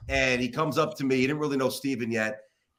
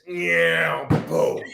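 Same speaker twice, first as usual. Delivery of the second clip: imitated crash; 2 semitones higher than usual. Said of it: "this interview went like this".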